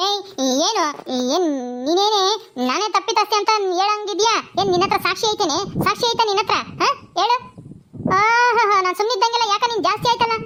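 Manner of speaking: snapping back at the daughter-in-law. Acted. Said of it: "ಯಾಕಂಗ್ ಬಾಯ್ ಮಾಡ್ತಾ ಇದ್ಯಾ? ಸ್ವಲ್ಪ ಮೆತ್ತ ಮಾತಾಡು". (ಸೊಸೆಯ ಮೇಲೆ ರೇಗುವ ಅಜ್ಜಿ, ಏರಿದ ಧ್ವನಿ)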